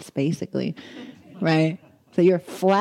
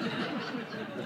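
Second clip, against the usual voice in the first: breathy laugh; 14 dB quieter than usual. Real, not acted. Amused at the marathon.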